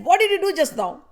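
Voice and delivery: high, loud shocked cry of Radha; Radha, startled, demands to know what happened. Acted. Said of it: "Radhani was shocked".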